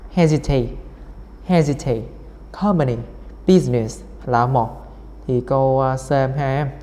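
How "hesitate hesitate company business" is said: "Hesitate, company, business" each stressed on the first syllable. Shown as a demonstration. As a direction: hit HES, COM and BUSI at the word starts. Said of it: "Câu D là một".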